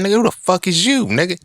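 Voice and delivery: high-pitched indignant challenge; incredulous, voice jumping way up; acted challenge. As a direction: squeak it out in mock outrage. Acts out challenging the man.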